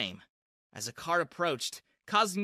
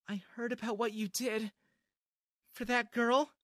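put-on sickeningly sweet girl; 7 semitones higher than usual. A narrator's reading. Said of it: "sickeningly sweet".

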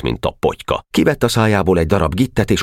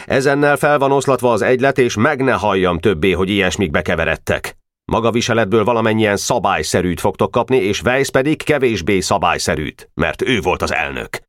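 a slightly raised, lecturing teacher voice; stern teacher; 5 semitones higher than usual. Acted. Teacher dissolving the boys' club, lightly stern. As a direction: scold the boys as their teacher.

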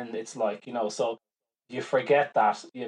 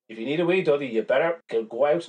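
raised-pitch retold plea to a pet; urging the dog; 3 semitones higher, 4 dB louder than usual. Owner urging Dudley out at night, mock insistent. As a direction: coax and insist, as if arguing with a dog. Re-enacts arguing with her dog.

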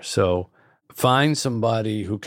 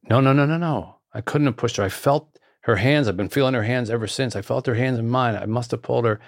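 insistent denial; 3 semitones higher than usual. Retold or imitated. Storyteller voicing a man denying he pushed her, insistent protest. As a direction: protest insistently, pitch lifted.

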